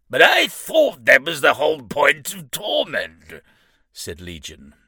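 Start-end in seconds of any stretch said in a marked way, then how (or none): 0.1-3.4 loud, high protesting shout; exasperated shout. Acted. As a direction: push back in frustration. Demon argues with the imp.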